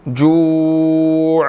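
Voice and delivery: जू with a throaty ain stop; जू, ain at end. Shown as a demonstration. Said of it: "आइन की sound आएगी".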